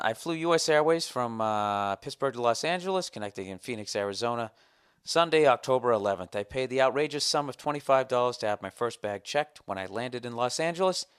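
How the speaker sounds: lightly declaimed complaint letter; formal letter reading. Acted. Customer reading out his letter about a bag fee, formal. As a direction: read it out with official emphasis.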